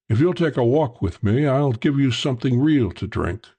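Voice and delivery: a hint of the genial Englishman; lightly voiced Englishman. Englishman inviting Parker for a drink, lightly genial.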